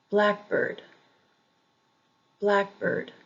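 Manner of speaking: blackbird with BLACK stressed; first-syllable stress. Shown as a demonstration. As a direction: say blackbird as BLACK-bird, second part lighter. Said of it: "emphasis on the first syllable".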